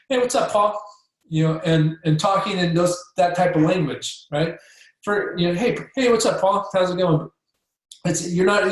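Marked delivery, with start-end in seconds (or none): 0.1-0.8 casual, breezy greeting pitched higher; aloof. Shown as a demonstration. Chiropractor greeting sulky teen Paul, casually aloof. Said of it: "you want to be aloof with pissed off Paul". 5.5-7.3 aloof. Shown as a demonstration. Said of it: "be aloof with pissed off Paul".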